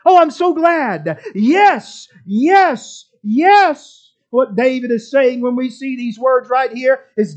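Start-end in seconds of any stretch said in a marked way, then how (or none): 0.0-4.0 imitating an emphatic, delighted yes; mildly hammed-up cheerful exclaiming; Mia's cheerful celebration. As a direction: act out celebrating a granted wish. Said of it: "go into celebration mode and emphatically and cheerfully exclaim".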